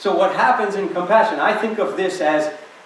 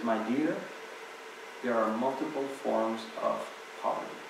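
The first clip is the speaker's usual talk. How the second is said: gentle Mother Teresa; 5 semitones lower, 12 dB quieter than usual. Retold or imitated. Mother Teresa gently answering the friend.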